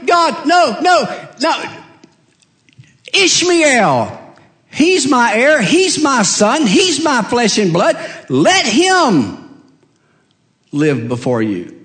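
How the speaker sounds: high shouted pleading; father shouting no to God; desperate protest. Acted. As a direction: cry out against God's choice.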